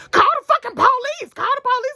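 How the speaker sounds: high, loud frantic yell; urgent yell. Retold or imitated. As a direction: shout it at her in a panic. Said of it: "they're like".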